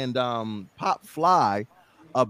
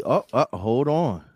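usual speaking voice

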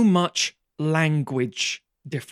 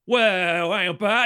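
higher mock-indignant London accent; defensive London reaction; 4 semitones higher, 3 dB louder, much slower than usual. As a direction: bristle in a put-on London drawl. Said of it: "classic reaction ... is to drill down".

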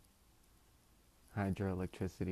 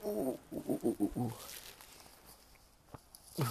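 blowing on cold hands; 6 semitones higher than usual. Real, not acted. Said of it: "back to warming them".

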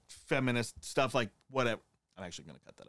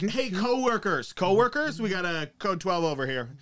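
mock cop calling out; 4 semitones higher, 3 dB louder than usual. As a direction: call the team over like a casual cop.

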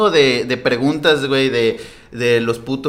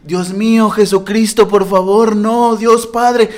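mock pleading prayer, higher and slowing at the end; imitating a praying woman; 5 semitones higher, 4 dB louder, slower than usual. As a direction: beg God like a frightened lady, stretched out. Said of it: "escucho una señora, que empieza a decir". (imitación leve de señora rezando suplicante)

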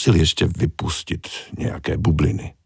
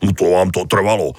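annoyed. Acted. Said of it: "vyhrkl naštvaně Tony".

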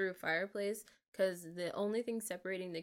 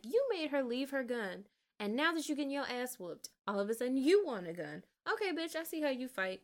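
higher-pitched, worked-up scolding; enraged, indignant; 4 semitones higher than usual. Retold or imitated. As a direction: call out the unfair fighter, voice pushed up. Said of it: "It enraged me, 'cause I'm like".

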